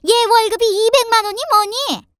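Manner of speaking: indignant tirade with loud bursts; fuming mother-in-law. A narrator's reading. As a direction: rant at the family, full of outrage. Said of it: "눈에 화가 가득해서는 씩씩거렸고". (씩씩대며 따지는 시어머니)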